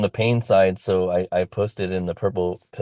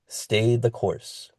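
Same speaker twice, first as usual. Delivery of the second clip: slow emphatic repeat; 3 semitones higher, 3 dB quieter, much slower than usual. Real, not acted. Repeated slowly, softer.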